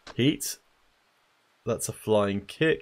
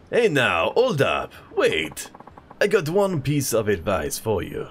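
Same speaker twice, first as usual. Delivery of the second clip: put-on French accent; 3 semitones higher, slower than usual. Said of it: "he's French".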